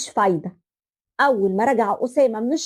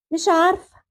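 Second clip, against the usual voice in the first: helpless sigh; 4 semitones higher than usual. Acted. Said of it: "مش عارفه يا بنتي".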